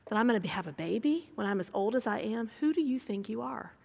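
quick, mildly mocking retort; mock-indignant challenge; mocking disbelief. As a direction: act out incredulous scoffing, lightly. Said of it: "mocked him, saying".

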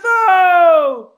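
high shouted Cockney exclamation. Retold or imitated. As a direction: yell it like a street crowd. Joining the Cockney heckle.

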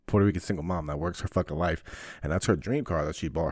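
usual speaking voice

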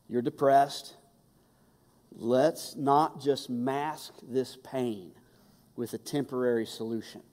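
soothing but firm; gentle God. Retold or imitated. God calming exhausted Elijah, gentle. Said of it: "God says to him".

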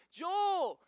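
long, high, loud hammed-up wail; mock wailing cry. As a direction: wail the name in pretend anguish. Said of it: "wailing and crying".

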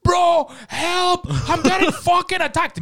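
loud, high imitation of a panicking gamer; mock panic. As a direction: cry for help in exaggerated panic. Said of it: "Bro, this is you".

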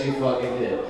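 usual speaking voice

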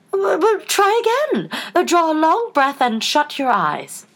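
high, slow, fluttery Queen; high-pitched, drawn-out encouragement; coaxing Queen. A narrator's reading. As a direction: coax slowly with a little stammer. Queen coaxing Alice in story.

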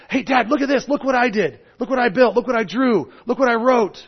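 put-on a light child showing off to dad; a hint of a kid tugging dad's sleeve; excited kid. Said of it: "my kids go".

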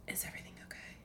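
hushed worried whisper; nervous whisper. Retold or imitated. Family asking if all is well, nervous whisper. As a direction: whisper it afraid of the answer. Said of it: "we're always whispering".

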